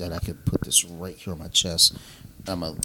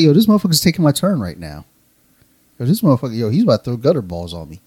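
loud, higher-pitched retold protest; mock indignation; 4 semitones higher, 8 dB louder, faster than usual. Bowler protesting that someone took his turn, mock indignant. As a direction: play up the outrage at being cheated of a turn.

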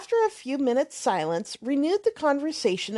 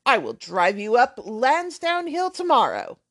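put-on brash, offhand young man swearing lightly; lightly voiced loud young rake; blustering braggart; 4 dB louder than usual.

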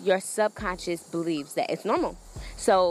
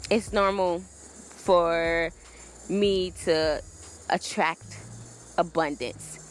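offhand, as if stating the obvious; a relaxed shrug of an affirmation; casual, matter-of-fact; 2 semitones lower than usual. Shown as a demonstration. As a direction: say it like it's no big deal. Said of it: "you should say it more so in a normal way".

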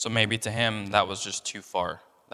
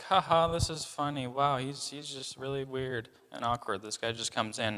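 mock amused scoff; 4 semitones higher than usual. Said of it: "it wasn't a laughter of".

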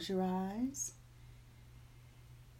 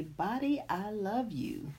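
tender self-talk; 5 semitones higher than usual. Shown as a demonstration. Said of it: "and just say".

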